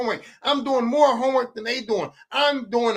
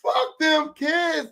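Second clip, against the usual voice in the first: slow drawn-out punchline; 7 semitones higher, much slower than usual. Acted. Repeated punchline, slowed take.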